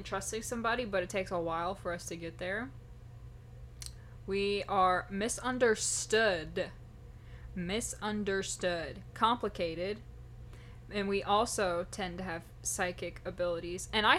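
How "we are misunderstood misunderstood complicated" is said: dramatic. Acted. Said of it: "dramatic self-description".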